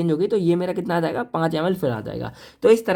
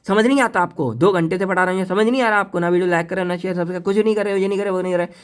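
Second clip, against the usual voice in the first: a teacher's fake scolding, only slightly raised; mock shouting; faster than usual. Shown as a demonstration. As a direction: scold the class half-seriously for not getting it. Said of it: "मैं आपको चिल्ला के बोल रहा हूँ".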